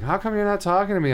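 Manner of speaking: high-pitched mock girlfriend complaint; high, whiny girlfriend impression; complaining girlfriend.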